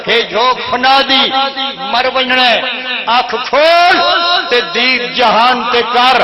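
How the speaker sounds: chanted majlis verse; poetry recital. Acted. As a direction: recite the rubai to the gathering. Repeats the rubai.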